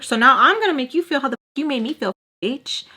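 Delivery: loud, fast, furious rant; mock-threaten her, loud and quick; seething loud retold comeback; angry threat.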